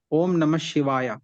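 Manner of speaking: "शिवाय" ending in a full long aa; South Indian pronunciation. Shown as a demonstration. Student shows teacher the southern chant, "शिवाय" with final aa. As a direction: draw "शिवाय" out to shivaayaa. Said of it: "हमारा south में करता है".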